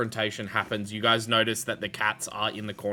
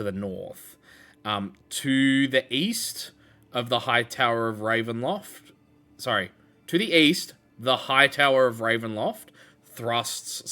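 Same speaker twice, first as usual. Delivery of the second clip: game master's scene reading. Acted. Reads out tower description.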